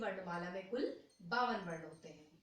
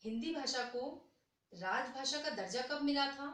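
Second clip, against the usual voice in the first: quizzing the class; 4 semitones higher than usual. Shown as a demonstration. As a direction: put the question to the students. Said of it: "repeats question calmly". (कक्षा से ऊँचे स्वर में सवाल पूछना)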